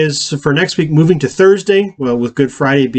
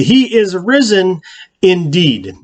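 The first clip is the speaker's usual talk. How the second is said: slow, higher congregational response; congregation's response; 4 semitones higher, slower than usual. Acted. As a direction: answer as a whole congregation would, slowly. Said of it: "the congregation will say".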